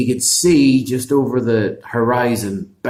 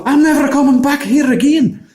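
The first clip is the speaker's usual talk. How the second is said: higher, louder terrified giant's cry; panicked giant shout; 6 dB louder than usual. Acted. Giant flees back to Scotland, panicked shout. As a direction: yell it while running away.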